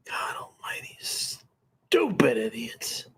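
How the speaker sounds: slow, whispered exasperation; exasperated whisper. Real, not acted. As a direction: sigh it out under breath. Exasperated muttering after rant.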